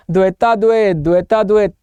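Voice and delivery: put-on द्वैता द्वैत said with a childish tongue-tied lisp; mock lisp. Shown as a demonstration. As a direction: lisp द्वैता द्वैत, blurring the final consonant. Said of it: "तोतला बोल रहा हूं ना मैं".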